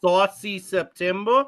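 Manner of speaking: slow mock Jersey accent. Teasing Ginger about her saucy gravy, in Jersey accent. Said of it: "Now you went to Jersey again".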